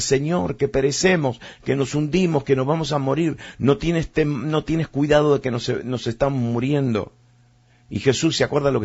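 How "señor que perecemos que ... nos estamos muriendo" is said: panicked cry. Retold or imitated. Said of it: "empezaron a gritar".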